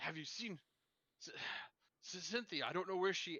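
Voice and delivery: frightened, frantic, high, stammering. Voicing Cornelius asking townsfolk about Cynthia: frightened and frantic. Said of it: "the voice of Cornelius, frightened, frantic, confused".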